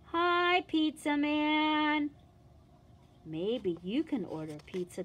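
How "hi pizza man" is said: cheery greeting. Acted. Greeting at the door.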